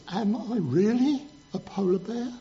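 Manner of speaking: a hint of a puzzled little bear; little polar bear. Little bear asking his dad, lightly voiced doubt. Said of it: "So he went to his dad".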